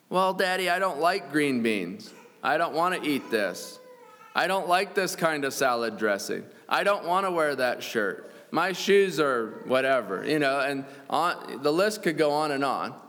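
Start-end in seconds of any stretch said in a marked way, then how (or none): 0.1-10.2 mock a child complaining about dinner; whining child. Preacher imitates a child whining to Daddy, lightly whiny kid voice. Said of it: "enjoy when your children are whining".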